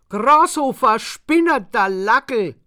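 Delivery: high, loud angry cursing. A narrator's reading. Narrator curses the farmer while chasing him, loud. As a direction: swear at him while stumbling behind. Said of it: "stolperte und fluchte hinter ihm her".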